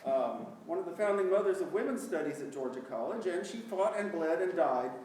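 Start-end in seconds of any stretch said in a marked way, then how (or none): 3.2-4.9 louder, laughing through the mock-heroic line; laughing mock epic; laughing exaggeration. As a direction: pile it on with a laugh. Mock-heroic joke, audience laughing.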